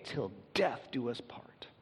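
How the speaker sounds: slow, hushed whisper of the wedding vow. Pretend. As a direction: breathe the vow softly, slowly. Quoting wedding vows.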